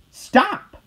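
sudden high, loud call. A narrator's reading. Dog shouting at the bus driver, high and loud. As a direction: yell it out to stop the bus. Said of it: "called the dog".

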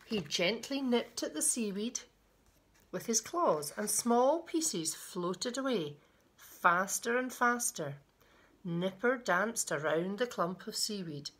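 put-on children's picture-book reading, lilting; storyteller pausing between phrases; story narration. A narrator's reading. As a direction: read it to little ones with deliberate emphasis. Reads a picture book aloud.

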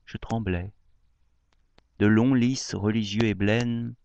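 measured poem reading, long pauses between lines; declaimed verse with lifted line openings; poetry recitation. Acted. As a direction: recite a love poem line by line, lingering on phrases.

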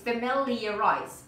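"familiarize" said slowly and carefully; slow model pronunciation. Shown as a demonstration. Teacher reassures students and repeats the word, slow model pronunciation. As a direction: take your time through every part of "familiarize". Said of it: "try to repeat after me".

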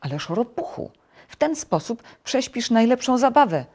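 high-pitched protest; mild exclaimed objection; crying out. A narrator's reading. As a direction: raise the pitch in dismay at the sleeper. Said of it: "krzyknął Żabek".

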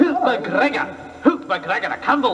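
hammy Scottish war cry; bad Scottish accent, shouted. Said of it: "the worst Scottish accent".

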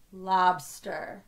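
"Lobster" stretched, syllables still joined. Shown as a demonstration. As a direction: say "Lobster" slowly to feel both syllables. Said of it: "say it a little slower".

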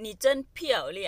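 slow, clear model sentence. Shown as a demonstration. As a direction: say it slowly so students follow. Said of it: "slow model of phrase". (พูดช้าๆ ชัดๆ ให้นักเรียนตาม)

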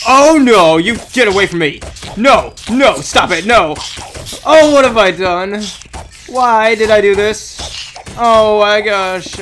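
loud, frantic panic; panicked. Real, not acted. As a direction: cry out in alarm. Panics as mobs attack.

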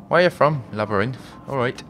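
badly faked Scottish accent; a half-hearted, botched Scottish lilt; horrible Scottish accent. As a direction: have a poor go at a Scottish accent. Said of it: "That's a horrible Scottish accent".

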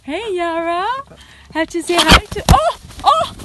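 high excited pet voice; talking to a pet. Real, not acted. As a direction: cheer on the bird, high and bright. Greeting and coaxing bird Yara.

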